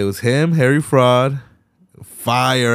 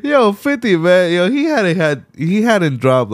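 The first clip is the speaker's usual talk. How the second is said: higher, louder excited rant; hyped; 9 semitones higher, 4 dB louder than usual. Real, not acted. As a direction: rave about the verse. Hyped about fifty's verse.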